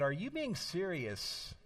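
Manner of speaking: retelling wife's amused reply through a laugh; a touch of laughter, imitating his wife. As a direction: laugh lightly while asking. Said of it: "she laughed and said".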